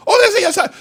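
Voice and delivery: high, mocking churchgoer voice. Preacher mocks a fake Christian, high mock voice. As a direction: squeak out the pious answer like a fake Christian.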